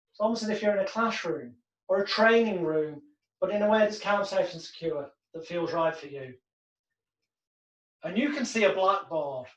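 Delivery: calm hypnotic read; hypnotic script. Shown as a demonstration. Hypnotist leading the client into the dream, calm. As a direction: guide them gently into the dream.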